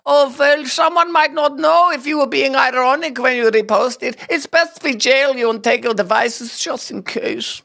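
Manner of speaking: smug, reasonable official voice; mock bureaucrat. Host mocking German officials, smug bureaucratic tone. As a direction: sound politely sinister. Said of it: "not when, like".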